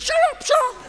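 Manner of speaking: high, urgent shut up; high-pitched shocked hiss of a father; shocked hushing. Retold or imitated. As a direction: hush him fast, scandalised. Embarrassed father hushing him.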